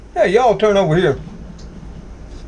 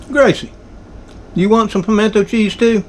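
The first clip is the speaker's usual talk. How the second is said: raised, higher call across the room; 5 semitones higher than usual. Real, not acted. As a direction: call the cat from afar. Calling his cat.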